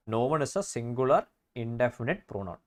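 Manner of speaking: slow, spelled-out rule; slow dictation. Shown as a demonstration. Teacher spelling out a grammar rule to students, slowly. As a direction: dictate it word by word. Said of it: "states rule slowly".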